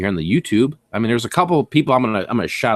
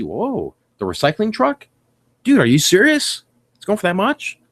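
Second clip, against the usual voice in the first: surprised; 7 semitones higher than usual. Retold or imitated. Imagined buyer surprised at price.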